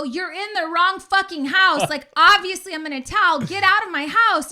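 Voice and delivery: high, loud angry outburst; screaming at intruders. Retold or imitated. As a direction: re-enact yelling at them, startled and furious. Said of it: "I'm screaming at them".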